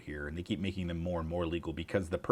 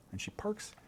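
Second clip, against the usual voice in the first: whisper; 13 semitones higher, 6 dB quieter than usual. Real, not acted. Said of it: "whispered aside about cleaning lady".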